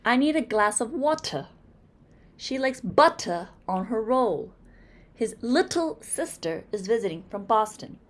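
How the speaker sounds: put-on light British accent, t in water and butter crisp; a touch of British, crisp t. Teacher imitates the British for students, light British accent. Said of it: "those of the British".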